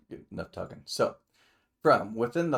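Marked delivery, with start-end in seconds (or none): 0.1-0.8 whispered aside to self; whispered to himself. Real, not acted. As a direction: whisper it as a note to yourself. Muttered note to himself.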